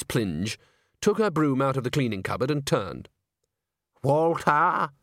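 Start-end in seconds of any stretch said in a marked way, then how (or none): 4.0-4.9 drawn-out call for someone. A narrator's reading. Missus Plinge calls for Walter on the empty stage, calling out. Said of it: "Her voice echoed around the empty stage".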